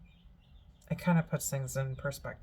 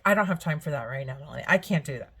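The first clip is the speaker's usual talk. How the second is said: impatient brush-off; 5 dB louder, much faster than usual. Retold or imitated. Mother brushing off urgent warning.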